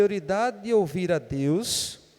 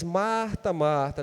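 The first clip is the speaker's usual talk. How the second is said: tender; much slower than usual. Shown as a demonstration. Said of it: "entonação de ternura".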